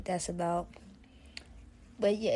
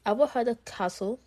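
badly faked British accent, a bit higher and louder; 4 semitones higher, 5 dB louder than usual. Shown as a demonstration. Host testing an old skill for listeners, rough British accent. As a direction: attempt a shaky-at-best British accent. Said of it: "see if I can do my British accent".

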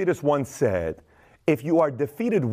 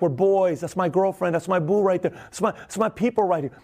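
acting the torn wannabe; 4 semitones higher than usual.

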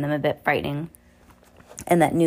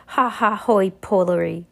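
villain's laugh; 3 semitones higher than usual. Acted.

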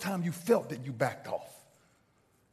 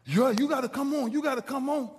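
raised pitch, pressing him to move; mildly urgent urging; 5 semitones higher than usual. Retold or imitated. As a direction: imitate a player egging someone on. Player urging him to get up.

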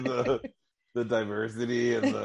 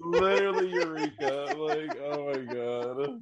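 laughing; 3 semitones higher than usual. Real, not acted. Laughing at the comparison.

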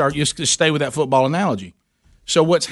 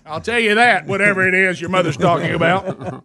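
stern scolding; 2 semitones higher than usual. Retold or imitated. Scolding the son.

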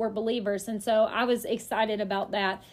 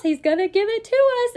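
confident faith; 8 semitones higher, 6 dB louder than usual. Retold or imitated. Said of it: "I politely responded".

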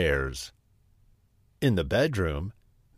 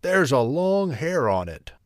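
gruff bear, raised in pitch; growling Daddy Bear; 5 semitones higher than usual. A narrator's reading. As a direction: growl it out, indignant. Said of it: "he growled".

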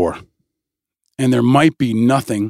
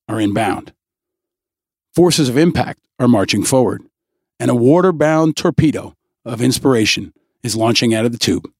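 military briefing hype voice; dramatic announcer read; 3 semitones lower than usual. Acted. Hyped military-style show intro.

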